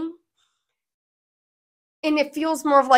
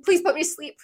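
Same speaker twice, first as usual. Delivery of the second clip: anxious plea; 5 semitones higher, faster than usual. Retold or imitated. Retold plea before being cut.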